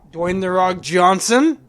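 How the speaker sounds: loud, slow, rising at the end; stretched-out name with a questioning lift; drawn-out suggestion. Real, not acted. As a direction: float the name slowly like a big reveal. Suggests casting, later repeated in accent.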